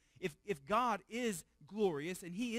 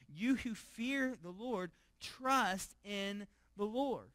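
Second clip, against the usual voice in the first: slow, higher exhortation; solemn call; 4 semitones higher, 5 dB louder, slower than usual. Acted. Preacher reading the psalm's call to the congregation, slow and lifted. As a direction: urge them word by word to trust.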